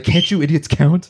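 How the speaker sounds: slow, loud mocking question. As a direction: talk down to the players. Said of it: "The game's throwing shade at us".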